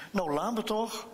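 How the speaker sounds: put-on a touch of childish anger; cross. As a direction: snap back like an annoyed girl. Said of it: "reageert Tineke boos".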